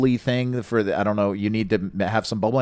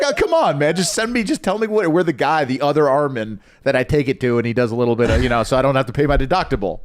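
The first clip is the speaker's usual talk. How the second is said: whiny pleading; 2 semitones higher than usual. Retold or imitated. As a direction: beg like a desperate kid. Pleading with Armin over fender bender.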